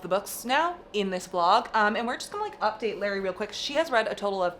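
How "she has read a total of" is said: laughing. Real, not acted. Teasing Larry with laughter.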